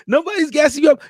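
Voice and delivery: fired-up insistence; emphatic shout. Real, not acted. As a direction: shout it to convince them. Insisting the praise is earned.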